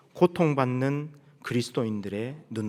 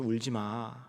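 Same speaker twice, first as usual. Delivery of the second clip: 작은 소리로 공감하듯 달래기; 힘을 빼고 부드럽게 위로하는 흉내; 공감하는 위로; 8 dB quieter, much slower than usual. Retold or imitated. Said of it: "감정적으로 공감하면서". (살짝 공감을 담은 여린 말투)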